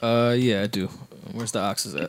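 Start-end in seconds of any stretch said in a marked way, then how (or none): 1.3-2.1 mild Irish Boston lilt on oxes; lightly voiced Irish Boston accent. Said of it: "pulled out his Irish Boston accent".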